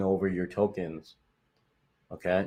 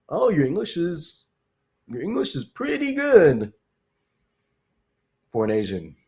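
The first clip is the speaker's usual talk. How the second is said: mock-surprised, much higher voice, patronizing; condescending stranger; 9 semitones higher, 3 dB louder than usual. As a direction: imitate a patronizing compliment, pitched way up. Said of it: "People are like".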